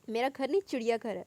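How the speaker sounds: irritated retort at her; angry. Acted. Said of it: "वो गुस्से से बोला". (गुस्से से बोलना)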